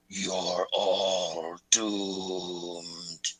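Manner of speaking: very slow low doom voice; slow ominous raspy drawl. Acted. Voice on the help line.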